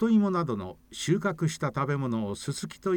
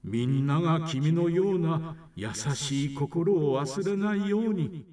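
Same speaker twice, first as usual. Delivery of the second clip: slow solemn god; slower than usual. Acted. God speaks to rabbit.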